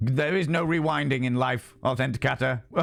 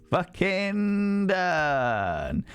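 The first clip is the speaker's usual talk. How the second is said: laughing; 6 semitones higher, much slower than usual. Real, not acted. Laughing finish.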